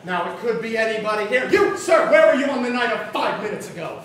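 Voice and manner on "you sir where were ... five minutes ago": mock accusation. Detective accuses audience member.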